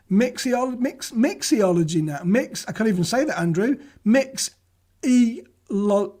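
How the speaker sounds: "mixology" broken off and restarted, "Mixiol-" then "Mix e lo-"; tripping over "mixology" again and again; tongue-tied. Real, not acted. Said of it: "I can't say it".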